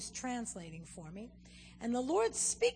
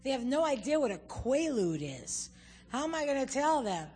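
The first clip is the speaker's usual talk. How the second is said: louder, exasperated protest; protesting to God; 5 dB louder than usual. Retold or imitated. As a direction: argue with God in disbelief. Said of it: "I said".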